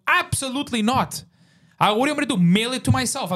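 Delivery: retold furious yell. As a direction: shout it at the guards as if they're idiots. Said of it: "forty-five minutes of screaming".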